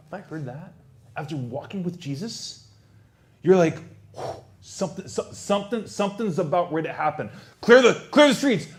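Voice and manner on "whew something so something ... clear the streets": starts as a breathless hush, ends in a high, loud shout; an alarm swelling until it bursts out; building from breathy hush to shout. Acted. Disciple warning the streets, hush rising to shout.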